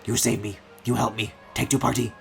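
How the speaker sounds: lightly voiced caveman grunt-talk. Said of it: "He's talking like a caveman".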